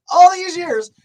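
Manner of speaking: building amazed outburst. Retold or imitated. Retelling his eyes being fixed.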